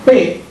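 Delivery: P popped with both lips, a burst of air; P, explosiva bilabial; lip sound P. Shown as a demonstration. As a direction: open the lips abruptly on P. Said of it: "la pronuncian con los labios".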